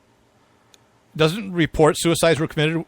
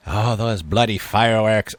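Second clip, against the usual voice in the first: put-on Scottish accent; 2 semitones lower, 3 dB louder than usual. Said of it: "I can't do a Scottish accent".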